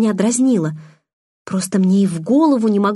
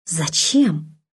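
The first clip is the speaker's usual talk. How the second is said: genuine surprise; 2 semitones lower than usual. A narrator's reading. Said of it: "Удивление в моём голосе было неподдельным".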